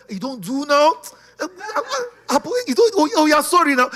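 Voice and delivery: high, whiny mock-sobbing apology; whimpering plea. Peacemaker begging a friend to stop, in mock tearful whine. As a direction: beg for peace in a put-on crying whine.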